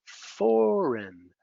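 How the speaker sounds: "Foreign" said FOR-in, silent G; plain correct "Foreign"; correct form. Shown as a demonstration.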